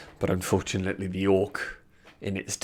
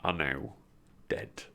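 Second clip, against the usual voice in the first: game master narration. Acted.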